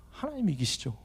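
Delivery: hushed whispered answer. Real, not acted. Punchline of his fight with God. (속삭이듯 조용히)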